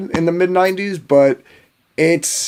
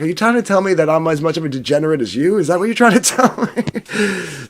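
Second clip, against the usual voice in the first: half-laughing mock outrage; laughing disbelief. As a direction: laugh through the accusation. Mock-offended question to Troy.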